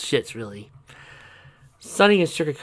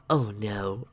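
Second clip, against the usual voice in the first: worried whisper; 3 semitones lower, 5 dB quieter than usual. Acted. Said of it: "Sugarcoat worried".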